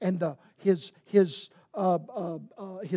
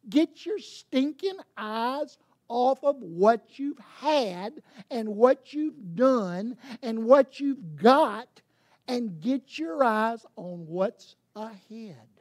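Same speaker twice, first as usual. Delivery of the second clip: stern rebuke; 4 dB louder, slower than usual. Acted. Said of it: "He's saying".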